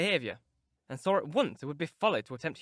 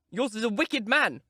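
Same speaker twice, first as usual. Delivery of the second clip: higher, louder and slow, firing back; sharp retort; 6 semitones higher, 5 dB louder than usual. Acted. Girl retorting to her cousin, indignant and slow. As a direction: throw it back at him hard. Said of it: "retorted Catherine".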